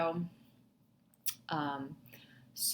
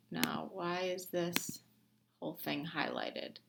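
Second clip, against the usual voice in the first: puzzled whisper; 7 dB quieter than usual. Real, not acted. Puzzled aside at the screen.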